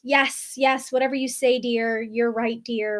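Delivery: lightly voiced, placating yes-dear; mildly appease him, slowing on dear; soothing flirt. Wife calming her upset husband, a light placating yes-dear. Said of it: "That is the flirt".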